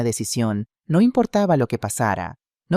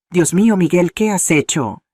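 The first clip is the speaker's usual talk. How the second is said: higher, louder exclamation of shock; alarmed, reproachful outcry; horrified cry; 6 semitones higher, 5 dB louder than usual. A narrator's reading. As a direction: cry out aghast. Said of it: "gritó Elena corriendo hacia mí".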